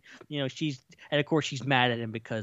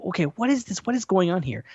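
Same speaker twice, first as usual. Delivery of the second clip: higher-pitched mock bewilderment; baffled reaction; 6 semitones higher, faster than usual. Viewer reacting to a very striking image, baffled. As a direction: act out puzzled surprise, pitched up.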